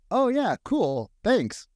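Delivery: high, slow, drawn-out easy thanks; laid-back thanks. Retold or imitated. Neighbour agent thanking him for help, a high slow easygoing thanks. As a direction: stretch it out like a relaxed colleague. Retold colleague's casual thanks.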